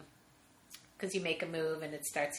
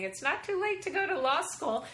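nagging mother; 9 semitones higher than usual. Retold or imitated. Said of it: "still calls me to this day saying".

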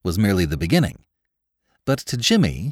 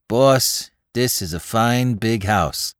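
put-on Bowery boy voice; 2 semitones higher, slower than usual. Spike scheming.

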